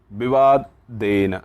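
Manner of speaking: "विवादेन" drawn out syllable by syllable; slow spelled-out word. Shown as a demonstration. Teacher slowing "विवादेन" down for the class. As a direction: stretch "विवादेन" so students catch every syllable.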